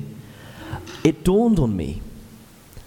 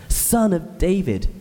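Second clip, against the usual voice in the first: higher, slow pleading call on "Son of David"; crying out; 5 semitones higher than usual. Retold or imitated. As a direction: stretch "Son of David" into a plea. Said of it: "he cries".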